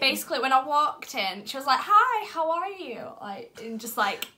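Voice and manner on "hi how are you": high, slow, drawn-out pop-star greeting; badly faked sweet star voice; botched pop-star impression. Fan imitates the star greeting her, botched impression. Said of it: "That sounded more like a country singer".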